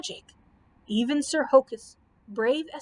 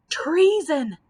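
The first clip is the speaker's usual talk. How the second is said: loud, higher accusing yell; 5 semitones higher, 8 dB louder than usual. Acted. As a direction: hurl the word as an accusation. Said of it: "yelled the three princes".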